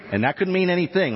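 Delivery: a playful take on a fellow pastor; imitating Randy for the church crowd; Randy Kirby impression. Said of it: "my best Randy Kirby impression".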